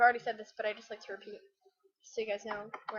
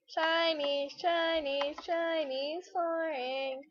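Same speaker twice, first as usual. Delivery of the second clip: slow, higher mock Chinese accent, lightly done; sing-song mock Chinese accent, drawn out; 5 semitones higher, much slower than usual. Touring the Chinese-style room in game, mock Chinese accent. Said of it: "I feel so guilty 'cause I'm like".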